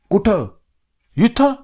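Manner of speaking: high, rising incredulous questions; you can't be serious, here?; shocked disbelief. A narrator's reading. Friend shocked Raja will relieve himself right here, high incredulous questions.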